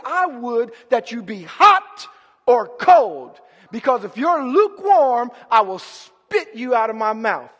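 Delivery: God's stern warning, preached with force; passionate. Acted. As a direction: punch out the key words. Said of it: "he's saying that with pa".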